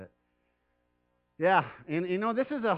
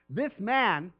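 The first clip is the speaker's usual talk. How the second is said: louder, urgent plea with deserves punched; earnest pleading; 3 semitones higher, 7 dB louder than usual. Retold or imitated. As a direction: plead his case hard to Jesus. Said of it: "they pleaded earnestly with Jesus".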